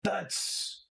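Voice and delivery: high, eager recognition; excited fan. Acted. A shifter recognizing a sports star, high and eager. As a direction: gush at a famous player. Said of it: "And he goes".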